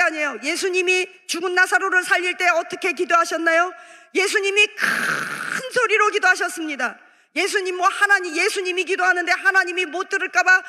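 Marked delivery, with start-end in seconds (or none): 4.1-7.0 long, drawn-out 큰 before 소리로; drawn-out stress. Real, not acted. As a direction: stretch 큰 out for several beats. Stresses how loudly Jesus prayed.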